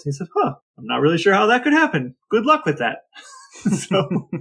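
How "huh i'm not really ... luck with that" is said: imitating Grandpa Doc.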